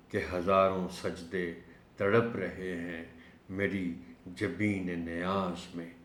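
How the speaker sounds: slow, measured verse reading; poetry recitation. Acted. Teacher quotes Allama Iqbal's couplet, slow measured recitation. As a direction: recite the couplet slowly, phrase by phrase.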